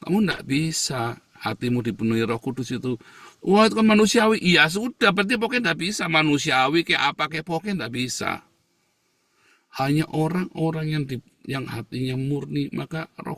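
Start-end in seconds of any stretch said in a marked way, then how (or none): 3.4-8.4 mocking quote. Mocking how opponents talk.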